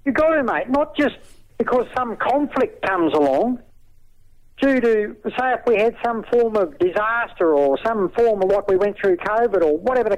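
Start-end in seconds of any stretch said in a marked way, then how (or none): 0.0-7.5 heated. Real, not acted. Heated reply.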